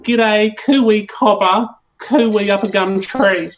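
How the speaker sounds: a playful, broad Australian read of the slang; Australian woman hamming up her own accent; hammed-up Aussie slang. Shown as a demonstration. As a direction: lay the Aussie accent on thick as a prompt. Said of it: "maybe you could give me a bit of".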